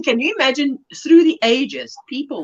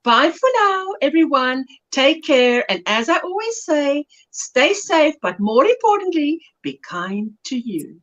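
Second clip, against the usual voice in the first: put-on South African accent; 2 semitones higher than usual. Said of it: "Linda with a South African accent".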